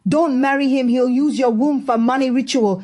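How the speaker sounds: high, excited yelling at the screen; shouting at the TV. Acted. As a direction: shout warnings at a film. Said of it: "shouting at the screen".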